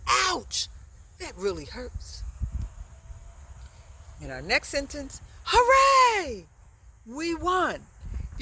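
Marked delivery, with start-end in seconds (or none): 0.1-2.2 pained ouch. Shown as a demonstration. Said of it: "and you will if someone steps". 5.4-7.9 high, loud hooray; cheering. Shown as a demonstration. Teacher cheers the example for the class, loudly. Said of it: "You'd say".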